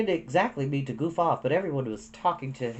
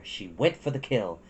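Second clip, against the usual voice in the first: plain reading voice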